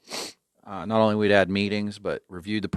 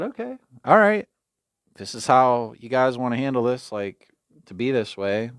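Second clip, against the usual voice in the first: knowing challenge; 3 semitones higher than usual. Retold or imitated. To the wardens, a knowing, pointed challenge. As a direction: let them know you've got something. Calling out wardens, holding proof.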